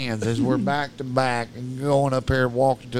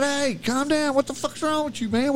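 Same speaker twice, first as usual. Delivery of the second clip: high, strained mock panic; retold alarm; 13 semitones higher than usual. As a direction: try to calm a panicking friend. Retold shouting at panicking friend.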